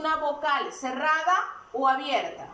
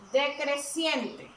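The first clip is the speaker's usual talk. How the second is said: slow emphasis; much slower than usual. Shown as a demonstration. Teacher stressing key term.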